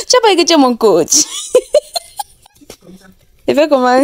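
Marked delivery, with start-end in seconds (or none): 0.0-1.2 fast, laughing tease. Real, not acted. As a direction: giggle through the words. Laughing at partner.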